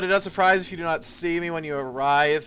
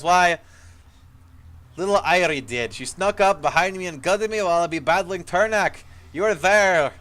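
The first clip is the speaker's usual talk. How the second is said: gruff dry dwarf; 4 semitones higher, 4 dB louder than usual. Acted. Ghost dwarf warning the hero of danger, gruff and loud. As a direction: play an old dwarf soldier, rough and urgent. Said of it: "his voice gruff and dry".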